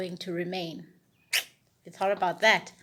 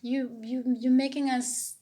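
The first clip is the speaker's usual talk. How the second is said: imitated scolding; 5 semitones higher, 3 dB louder than usual. Mimicking everybody in the lockdown turmoil, mock scolding. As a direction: imitate people nagging each other, pitched up. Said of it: "everybody saying".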